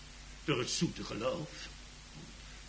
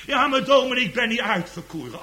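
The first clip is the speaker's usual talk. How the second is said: raised-voice objection, easing off at the end; doubter's protest; 11 semitones higher, 10 dB louder than usual. Acted. Doubter objects to the minister that he isn't chosen, protesting. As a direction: protest to the minister, starting loud and high.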